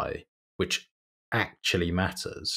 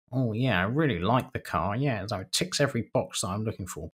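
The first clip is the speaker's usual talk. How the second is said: lightly voiced eager car buyer, a bit higher; 4 semitones higher than usual. Customer tells the salesman he likes the car, mock keen. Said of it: "They'd be like".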